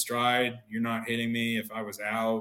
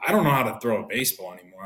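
louder repeat; 7 dB louder, faster than usual. Retold or imitated.

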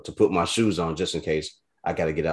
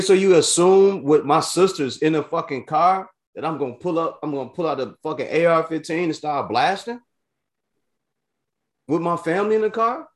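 much higher, louder, outraged tirade; furious rant; 11 semitones higher, 5 dB louder than usual. Retold or imitated. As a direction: lay into the cop in total outrage.

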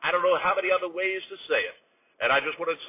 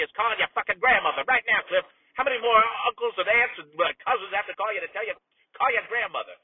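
higher, insistent scolding; exasperated anger; 4 semitones higher than usual. Acted. Uncle hounding his nephew to call grandma, exasperated. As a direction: badger him, fed up. Berating nephew again on air.

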